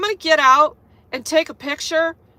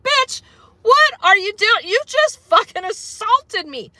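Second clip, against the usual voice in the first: higher, louder shocked yell at the carrier; retold outraged yell; 7 semitones higher, 4 dB louder than usual. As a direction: snap back at her, outraged. Retelling own reaction to assault.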